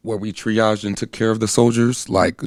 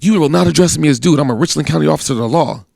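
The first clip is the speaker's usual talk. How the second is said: indignant officer; 5 semitones higher, faster than usual. Retold or imitated. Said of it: "He was like".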